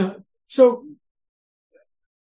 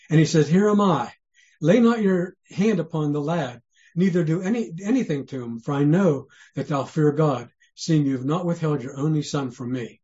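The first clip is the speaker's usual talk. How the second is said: almost monotone. Shown as a demonstration. Preacher showing how we read Abraham's story, almost monotone. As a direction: read scripture evenly. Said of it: "almost monotone".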